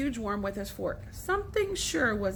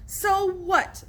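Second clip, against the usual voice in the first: defiant; 8 semitones higher, 4 dB louder than usual. A narrator's reading. Argument in the barn.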